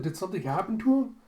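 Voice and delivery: sudden worried rush; alarmed question. Retold or imitated. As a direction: blurt it out fast in surprise. Boy asks anxiously, fast.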